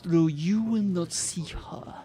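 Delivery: menacing villain. Acted. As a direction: play the dark double as cold menace. Villain monologue.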